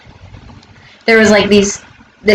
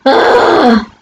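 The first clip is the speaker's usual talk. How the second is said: higher-pitched groan of frustration; exasperated groan; 5 semitones higher than usual. Real, not acted. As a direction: groan it out, fed up. Exasperated after neighbor story.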